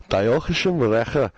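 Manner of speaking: fluffy-sounding Welsh version; Welsh accent. Shown as a demonstration. Host contrasting it with German, fluffy Welsh accent. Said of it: "in a Welsh type accent sounds fluffy".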